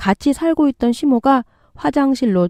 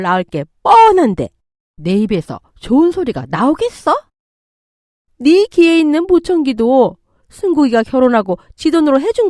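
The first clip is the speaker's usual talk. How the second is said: angry mother-in-law; 3 semitones higher than usual. Acted. Mother-in-law demanding daughter-in-law end the pregnancy, angry. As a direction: lay down a harsh demand, irritated. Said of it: "시모가 그토록 화가 나섰던".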